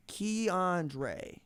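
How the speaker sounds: Keandre said syllable by syllable; careful, separated syllables on Keandre; sounded-out pronunciation. Retold or imitated. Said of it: "I'm writing it out phonetically".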